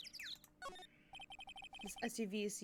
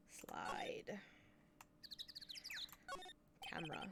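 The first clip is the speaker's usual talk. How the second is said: whispering; 3 semitones lower, 15 dB quieter, slower than usual. Acted. Whispered command.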